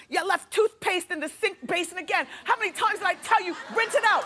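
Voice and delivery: high, rising nagging scold; nagging stepmom. Retold or imitated. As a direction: scold like a wicked witch stepmom. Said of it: "sounds like a wicked witch".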